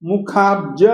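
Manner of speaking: मुखाब्ज with ब dropped, no vowel; vowelless ब. Shown as a demonstration. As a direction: clip ब in मुखाब्ज. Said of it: "इसको स्वर विहीन बोलेंगे".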